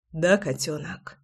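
soft, slow low whisper. A narrator's reading. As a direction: breathe it softly and slowly. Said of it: "прошептал он".

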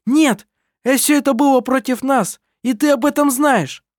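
heated quarrel. A narrator's reading. Heated quarrel among siblings.

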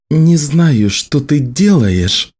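measured, menacing warning; growled warning. A narrator's reading. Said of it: "тоном столь опасным".

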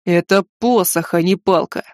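slow, mildly grumbling correction; displeased reproach. Acted. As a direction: set the girl straight, a touch annoyed. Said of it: "недовольно укорил девицу маг холода". (недовольно, с укором)

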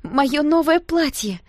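high, loud, slow dismayed cry; shocked gasp. A narrator's reading. Girl over spilled cola, shocked high wail. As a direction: wail over the ruined dress. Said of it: "выдохнула Серебрякова потрясённо".

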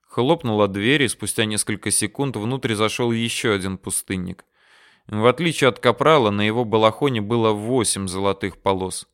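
ordinary delivery, nothing marked

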